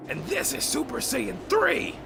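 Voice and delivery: high, rising announcement; building reveal. Retold or imitated. Retelling a hero showing off transformations, building excited reveal. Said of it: "He did the whole".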